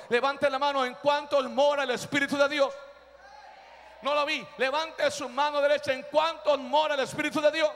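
emphatic scripture proclamation; forceful preaching. Real, not acted. Preacher reading Romans to the church, forceful. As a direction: press the crowd for a response.

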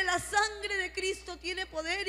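slow, drawn-out rebuke of the devil; reprensión al diablo. Retold or imitated. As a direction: declare it slowly, as a spiritual command. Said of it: "comencé a reprender al diablo". (reprendiendo al diablo con firmeza)

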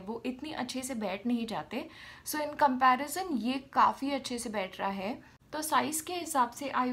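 talking with stiff cheeks; wearing a sheet face mask. Real, not acted. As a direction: lips moving through mask hole. Seen 2: Wet sheet mask covers face throughout; mouth opening leaves lips free.

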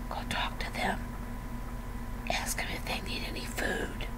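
the little bird whispering in your ear; soft unvoiced whisper of a nudge from God. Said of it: "little bird on your shoulder and says".

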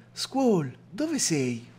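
a restrained cry for someone lost; mild acted shout. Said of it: "E urlai". (grido recitato, contenuto)

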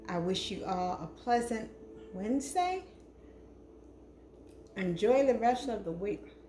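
talking while chewing; words around a bite of food; mouth full. Real, not acted. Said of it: "I shouldn't be talking with food in my mouth".

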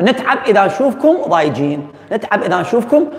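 laughing tease. Real, not acted. Laughing teasing class.

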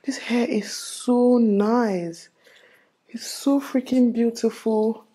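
slow, drawn-out admiration; dreamy slow gushing; admiring. Real, not acted. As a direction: savour every word, in love with the look. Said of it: "I can't help but look at myself".

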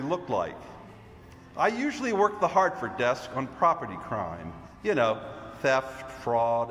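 confident agent revealing himself, projected; firm, measured theatrical explanation; Mr. Green, undercover agent. Acted. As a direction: declare it like a stage detective's big reveal. Performs Mr. Green's monologue.

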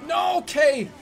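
desperate yell of no; shouting. Real, not acted. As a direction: cry out in panic. Teammate lost in game.

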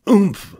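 high comic oomph of a fall; knocked breathless by the thump; grunt on landing. Acted. Wilbur landing with a thump, a comic grunt. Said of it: "he grunted".

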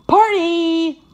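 high, loud barked cheer; Frisky. A narrator's reading. Frisky the Collie as treats fly, barking. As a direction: bark it like a party-crazed collie. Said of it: "Frisky the Collie barks".

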